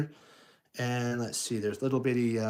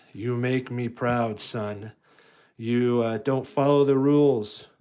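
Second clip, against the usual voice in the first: a hint of a proud dad, louder at the end; proud villain dad; 5 dB louder than usual. Darth praising Luke for rule-breaking, lightly voiced proud dad. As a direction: praise your son for breaking rules. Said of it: "so he's like".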